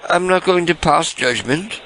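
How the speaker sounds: high, sugary put-on caller voice; sweet fake-friendly caller; prank caller voice.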